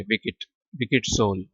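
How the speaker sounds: विकेट with a short i in the middle; wicked with an i sound. Shown as a demonstration. Teacher models the vowel for the class. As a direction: say विकेट with i, not e. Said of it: "यहाँ पे आई आ जाएगा जब pronounce करेंगे".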